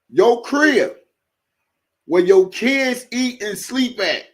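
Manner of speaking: loud, high, slow outraged rant to the chat; heated rant. Real, not acted. Host demanding his viewers' answers, loud and outraged. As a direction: hammer each phrase out loud and slow. Ranting at viewers about cheating.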